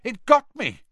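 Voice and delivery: high, loud cry of pain; pained yell. A narrator's reading. Boy bitten in class yells to Hagrid. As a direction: shout it, just got burned. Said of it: "yelled Dean Thomas".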